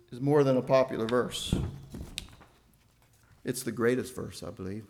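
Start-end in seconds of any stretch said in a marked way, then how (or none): 3.4-4.4 greatest leaned on, the rest low; quietly emphatic greatest; stress on greatest. Real, not acted. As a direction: put the weight on greatest. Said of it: "with the emphasis on the word greatest".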